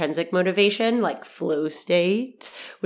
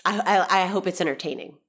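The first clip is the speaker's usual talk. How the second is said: blocked nose. Real, not acted. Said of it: "my nostrils are clogged up, because they are".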